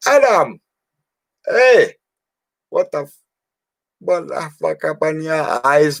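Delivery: a laid-back Jamaican barmaid teasing a stoned guest. Retold or imitated. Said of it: "Cedric, she went".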